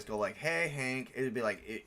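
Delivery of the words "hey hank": annoying voice. Shown as a demonstration. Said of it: "say it in an annoying voice".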